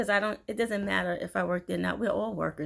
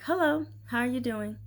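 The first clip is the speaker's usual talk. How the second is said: friendly hello, pitched up; sincere greeting; 5 semitones higher than usual. Acted. Greeting someone who doesn't like her, sincere and friendly. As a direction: greet them openly, without sarcasm. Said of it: "And not sarcastic".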